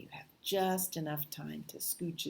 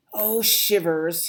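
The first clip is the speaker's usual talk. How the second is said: slow, louder, higher snake exclamation; frightened snake hiss; 5 semitones higher, 12 dB louder, slower than usual. A narrator's reading. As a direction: draw it out loudly as a startled snake. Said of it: "hissed Snake".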